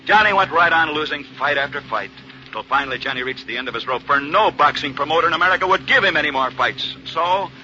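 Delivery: put-on dramatic old-time radio narrator; 1950s narrator. A narrator's reading. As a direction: tell it like a 1940s sportscast legend.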